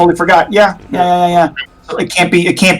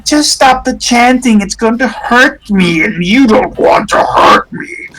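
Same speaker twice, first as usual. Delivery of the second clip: high, coaxing spirit voice; pleading spirit; 6 semitones higher than usual. Acted. Spirit coaxing Rudolph to stop chanting, high and pleading. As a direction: tempt him sweetly to stop. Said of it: "it says, P".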